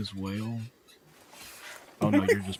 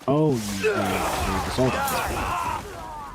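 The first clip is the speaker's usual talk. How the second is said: outraged shout; slower than usual. Real, not acted. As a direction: cry out in disbelief at the cruelty. Outraged at a dead whale.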